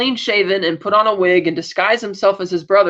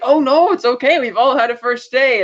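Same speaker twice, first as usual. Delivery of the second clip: kind Ray; 6 semitones higher, 3 dB louder than usual. Retold or imitated. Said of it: "And Ray is like".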